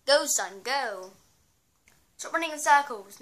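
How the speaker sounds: loud cheering on a little plant; urging on. Real, not acted. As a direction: yell encouragement at the screen.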